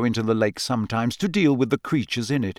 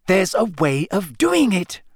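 cross; 6 semitones higher than usual. A narrator's reading. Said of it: "Hermione said crossly".

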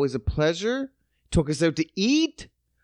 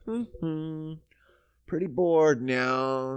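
whispered hum, then slow bored mutter; 3 semitones lower, 4 dB quieter, much slower than usual. Retold or imitated. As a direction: murmur under the breath, fed up. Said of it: "You're like".

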